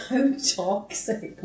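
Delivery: slow laughing tease; teasing laugh at herself. Real, not acted. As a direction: laugh it out slowly. Laughing at her own excuse.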